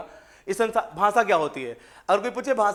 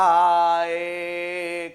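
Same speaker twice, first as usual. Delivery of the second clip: meaningless vowel sounds. Shown as a demonstration. Teacher repeating meaningless sounds for the class, drawn-out vowels. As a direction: repeat the senseless sounds as an example. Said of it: "ये क्या बोला मैंने?".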